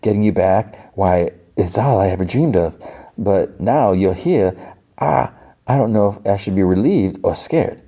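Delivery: lightly put-on Southern accent; halting, hammed-up Southern belle accent; Rogue. Rogue unsure about getting Gambit back, mock Southern accent. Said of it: "And she's like".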